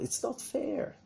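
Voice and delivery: whiny, breathy complaint in a tiny voice; a small sulking inner voice; little moaning voice.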